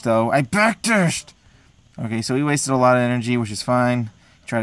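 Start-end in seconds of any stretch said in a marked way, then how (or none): 0.3-1.3 high, slow, stretched-out outcry; shocked disbelief. Real, not acted. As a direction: wail it in disbelief. Gamer repeats in disbelief.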